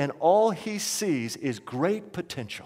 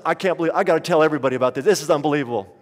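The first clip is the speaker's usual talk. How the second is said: excited rush; 3 semitones lower, much faster than usual. Retold or imitated. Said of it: "she was just amazed".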